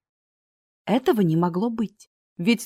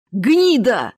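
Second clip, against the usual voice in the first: angry curse; 3 semitones higher, 7 dB louder than usual. Acted. Cursing robber.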